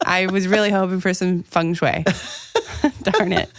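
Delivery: words spoken through a laugh. Real, not acted. Host laughs at the printer's mix-up while speaking. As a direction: chuckle through the line. Joking about the ruined layout.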